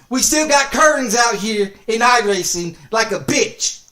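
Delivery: shouting the insult, fed up; angry shout. Real, not acted. Streamer shouting to his chat about a rival racer, angry. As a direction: yell it out to the whole chat.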